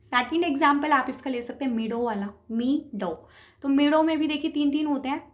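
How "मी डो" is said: "मी डो" with मी held, then brief डो; stress on मी. Shown as a demonstration. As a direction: take मी at ease, separate it from quick डो. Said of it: "मी आप आराम से बोलते हैं और डो आप बड़ी जल्दी बोल देते".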